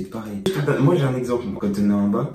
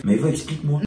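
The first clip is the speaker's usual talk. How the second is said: calling out; 6 semitones higher, 4 dB louder than usual. Retold or imitated. Imitating calling his girlfriend.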